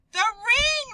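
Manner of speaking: high, loud near-scream of surprise; almost scream at the sight of it. Acted. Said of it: "Maria nearly screamed".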